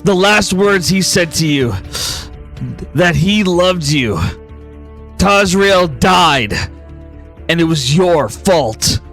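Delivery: slow, grave storyteller building tension; dramatic scene narration. Acted. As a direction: paint the haunting memory slowly.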